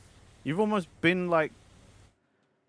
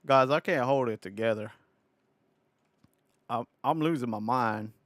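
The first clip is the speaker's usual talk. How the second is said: put-on Southern American accent. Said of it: "this really shitty Southern American accent".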